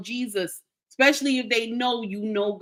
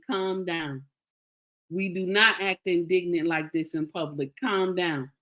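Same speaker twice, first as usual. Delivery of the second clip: low-key, settling reproof; retold calming husband; 3 semitones lower than usual. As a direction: play a husband firmly talking his wife down. Husband calming angry wife, retold.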